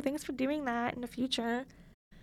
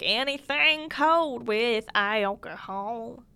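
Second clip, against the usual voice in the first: slow, louder mock country drawl; country accent; 5 dB louder, much slower than usual. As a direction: ham up a Southern country accent. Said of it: "sing a song in a country accent".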